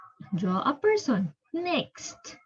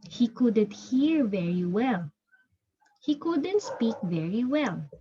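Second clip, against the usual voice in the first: clear, measured storybook narration for a class; storybook reading to children. A narrator's reading. Teacher reading the story aloud to her pupils, steady storybook voice. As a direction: read it like a teacher sharing a picture book.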